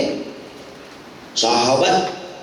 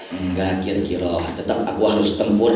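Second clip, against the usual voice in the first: low, measured leader's reply; quietly resolute, pitched well down; calm refusal; 12 semitones lower, 3 dB quieter, faster than usual. Retold or imitated. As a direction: refuse gently in a much lower pitch. Prophet calmly refuses the plea.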